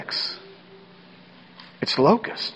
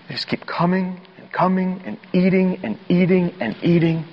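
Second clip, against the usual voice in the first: hushed whisper. Acted. Hushed insect swarm image.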